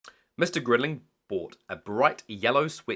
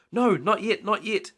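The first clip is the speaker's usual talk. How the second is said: put-on high, eager pleading children; begging; 9 semitones higher, 4 dB louder than usual. A narrator's reading. Children beg Mister Grinling to wait, high eager pleading. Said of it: "begged the children".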